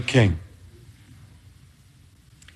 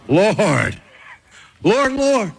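raised, pleading voice of the rejected; pleading claimants; 4 semitones higher than usual. Retold or imitated. Claimants on judgment day begging Jesus, pleading. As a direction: beg him, listing your good deeds. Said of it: "and they will say to me".

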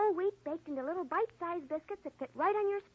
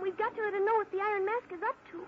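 tearful. Acted. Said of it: "while you've been crying".

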